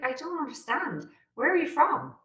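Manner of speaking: high-pitched puzzled questioning; acted confusion. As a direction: re-enact bewilderment, voice lifting high. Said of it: "I would just be confused".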